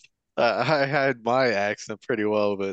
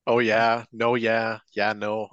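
lightly put-on Minnesota long O; Minnesota accent; slower than usual. Shown as a demonstration. Friend joining in with stock phrases, mild Minnesota accent. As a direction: lean a little into Minnesota vowels. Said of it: "like, an accent".

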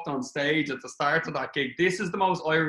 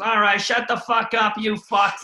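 imitating Bill yelling; 6 semitones higher, 5 dB louder, slower than usual. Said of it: "he goes".

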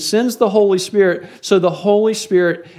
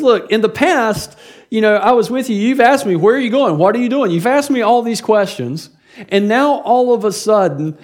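mild fussing; 3 semitones higher than usual. Retold or imitated. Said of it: "it almost sounds like he's fussing at them".

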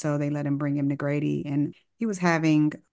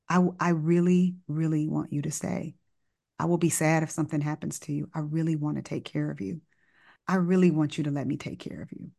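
calm, tender. Retold or imitated. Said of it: "I'm calm".

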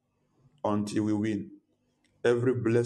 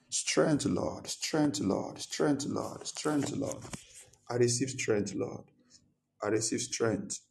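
passionate praying aloud; fervent prayer. Acted. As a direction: pray with fervour.

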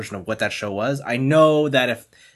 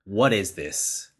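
slow, lower "what is this"; incredulous; 5 semitones lower, 5 dB quieter, slower than usual. Retold or imitated. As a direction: sound baffled by the trailer. Reacting to the first trailers.

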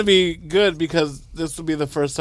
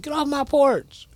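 grumpy homeowner; 9 semitones higher, slower than usual. Pretend. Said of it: "I wanna be one of those people. Like".

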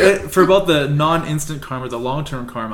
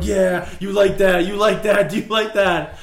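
slow, raised mock taunt; 6 semitones higher, 3 dB louder, slower than usual. Friend pranking him in a shop, slow mock taunt. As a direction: tease him slowly while laughing.

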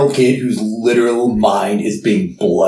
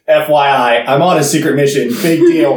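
Hagrid; 3 semitones higher than usual. Retold or imitated. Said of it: "telling everybody".

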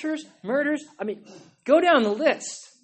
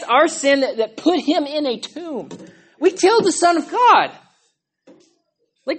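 loud, building preacher's cry; impassioned yelling; 3 semitones higher, 7 dB louder than usual. Real, not acted. Preacher charging the congregation with killing Jesus, yelling. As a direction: preach it out, rising in force. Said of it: "I'm sorry I'm yelling so much".

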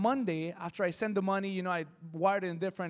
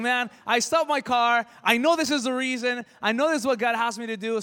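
excited; 3 semitones higher, 6 dB louder than usual. Retold or imitated. Excited realization of God's plan.

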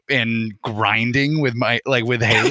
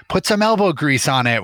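stepdad calling out; 5 semitones higher than usual. Retold or imitated. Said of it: "my stepdad called out".

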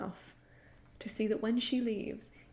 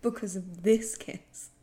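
mock despair; 5 dB louder, slower than usual. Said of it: "I was like".

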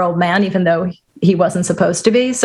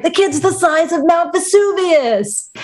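higher, lightly voiced old-timey line; old-timey movie voice; 8 semitones higher than usual. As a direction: quote it like an old film. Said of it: "he's like".

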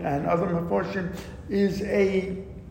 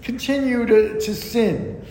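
sarcastic; 5 semitones higher than usual. Acted. Teacher mocking the prophet's sarcastic call to sin. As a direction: egg them on to sin, dripping irony. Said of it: "and he's being sarcastic".

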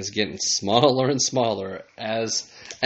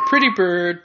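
parrot voice; 8 semitones higher, 5 dB louder than usual. Pretend. Parrot imitation.

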